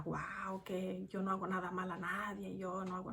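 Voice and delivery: hushed sarcastic impression of a self-righteous man; mocking self-righteous voice. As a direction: mimic someone who thinks they do no wrong.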